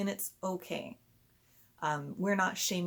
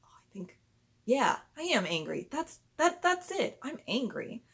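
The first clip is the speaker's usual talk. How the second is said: put-on child realizing; 7 semitones higher, 4 dB louder than usual.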